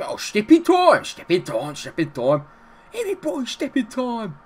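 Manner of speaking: hammed-up bad Cockney, high and loud at first; Dick Van Dyke Cockney. Mocking Dick Van Dyke's Cockney in Mary Poppins. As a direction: mimic a terrible film Cockney accent. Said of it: "His Cockney impression was just horrendous".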